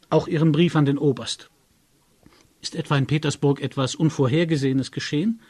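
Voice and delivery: high, loud, fast demands; agitated demand. A narrator's reading. Friend demands Tegeljow explain himself, agitated. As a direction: press him for answers.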